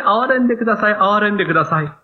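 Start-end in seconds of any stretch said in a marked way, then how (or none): 0.0-1.0 higher, pleading call; crying out for mercy. Retold or imitated. Blind man calls out to Jesus, begging aloud. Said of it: "大声で".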